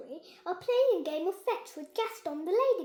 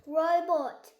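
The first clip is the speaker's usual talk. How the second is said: louder call of robot; calling shout; 3 semitones higher, 9 dB louder than usual. Acted. Ben shouting at the robot to stop, firm. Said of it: "shouts Ben".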